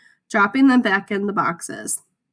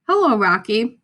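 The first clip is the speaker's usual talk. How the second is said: parrot voice; 4 dB louder than usual. A narrator's reading. Parrot greeting Harry in the empty shop, squawky. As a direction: chirp it out like a bird.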